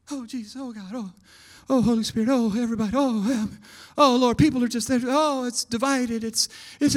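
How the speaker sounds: hushed, fretful mock prayer; mock panicked praying. Preacher mimicking anxious church during covid, hushed and fretful. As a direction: imitate a worried believer mumbling prayers. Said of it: "we all started freaking out".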